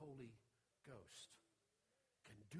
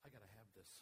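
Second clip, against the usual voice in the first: longing plea; 5 semitones lower, 7 dB quieter, much faster than usual. Retold or imitated. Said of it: "Three thousand people said".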